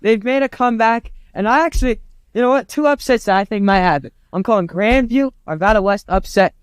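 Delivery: excited, thumping the desk; banging the desk. Real, not acted. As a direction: pound the desk while talking. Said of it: "Will you quit banging the desk?".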